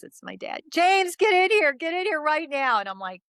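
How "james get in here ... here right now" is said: high, urgent summons, easing in volume at the end; re-enacted shout, pitch way up; imitated panicked yell. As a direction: yell for help like a panicked mom. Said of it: "she's yelling".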